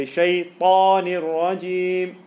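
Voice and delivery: slow drawn-out "Shaytanir rajim"; Quranic recitation. Shown as a demonstration. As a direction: recite it slowly. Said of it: "He can say".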